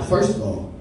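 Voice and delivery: lightly voiced offended coworker; hurt friend. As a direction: play it hurt and betrayed. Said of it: "He was just like".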